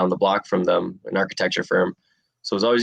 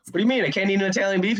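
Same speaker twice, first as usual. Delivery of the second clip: much higher, naive questioning voice; clueless mock innocence; 12 semitones higher, much faster than usual. Fighter telling coach he ate a beef, high naive mock voice. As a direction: play dumb, wide-eyed and puzzled. Retold own clueless reply.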